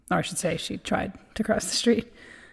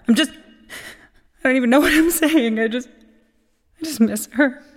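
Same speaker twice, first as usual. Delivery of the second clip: sad sigh; 3 semitones higher, 3 dB louder than usual. Acted. Eulogy, voice breaking.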